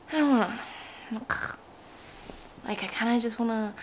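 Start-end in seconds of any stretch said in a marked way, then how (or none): 1.1-1.6 short throaty "ugh"; reluctant groan. Real, not acted. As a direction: groan at the thought of training. Reluctant to get up and train.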